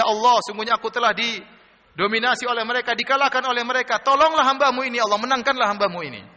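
acted prayer plea. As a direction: plead to God as the praying prophet. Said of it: "Maka Nabi Nuh berdoa".

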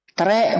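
"Tre" read as written, treh with a rolled-out final e; spelling pronunciation. Shown as a demonstration. Teacher quizzing class on English reading, spelling pronunciation.

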